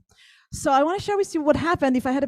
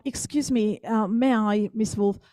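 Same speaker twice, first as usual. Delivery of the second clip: put-on British accent; slower than usual. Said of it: "with this British accent".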